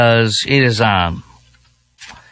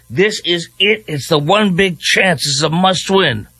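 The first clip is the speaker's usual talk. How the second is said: mock excited Democrat; 5 semitones higher than usual. Mimics Democrats hyping candidate.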